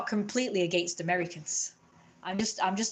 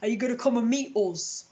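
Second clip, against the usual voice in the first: mock northern invite; 3 semitones higher, 4 dB louder than usual. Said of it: "I don't say".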